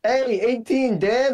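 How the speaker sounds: high, slow triumphant shout; excited cheer. Real, not acted. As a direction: cheer the big roll. Celebrating a big damage roll.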